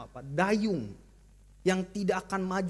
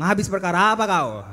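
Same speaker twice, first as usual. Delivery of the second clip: blunt Batak retort; 2 semitones lower, 9 dB louder than usual. Retold or imitated. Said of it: "Orang Batak kan B T L".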